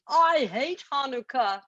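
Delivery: high goblin whine; high goblin complaint; sulky goblin. Acted. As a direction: spit it out as the goblin. Goblin voice in story.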